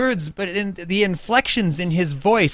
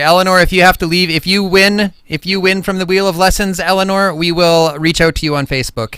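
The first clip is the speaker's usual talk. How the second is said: louder, faster call to a guest leaving; 2 semitones higher, 5 dB louder than usual. Real, not acted. Host calling to departing audience member, loud and quick. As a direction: call across the room to Eleanor.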